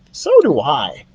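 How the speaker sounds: heartfelt mouse; with feeling; lightly voiced mouse. Ralph voiced.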